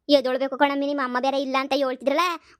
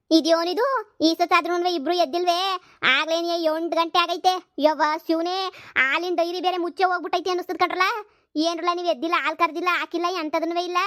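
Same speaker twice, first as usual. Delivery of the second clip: scolding mother-in-law; 4 semitones higher than usual. Acted. Mother-in-law scolds late risers.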